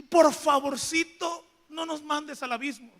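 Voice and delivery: whimpering plea. Acted. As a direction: beg sweetly and small. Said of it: "Como rogando". (el endemoniado rogando, lento y agudo)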